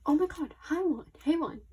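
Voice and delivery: high, loud delighted greeting; excited squeal. Real, not acted. Fan greeting her idol's photo card, squealing.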